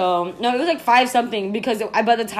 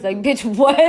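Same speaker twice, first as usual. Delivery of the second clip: mock-outraged, slightly louder retort; incredulous comeback; 2 semitones higher, 4 dB louder than usual. Women balking at their friend's grass remark, incredulous. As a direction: throw it back in disbelief.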